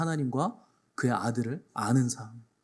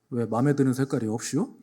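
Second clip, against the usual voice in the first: Chungcheong driver; 3 semitones lower than usual. Retold or imitated. Pastor voicing a Chungcheong driver's joke to the cop, laid-back dialect. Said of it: "충청도에서".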